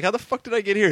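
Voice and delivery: high, loud, baffled outburst; confused woman. Retold or imitated. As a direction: blurt it out totally confused. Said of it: "She's like".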